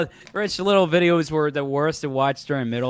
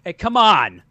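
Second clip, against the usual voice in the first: imitating a friend's pep talk; 5 dB louder than usual. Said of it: "It was like this".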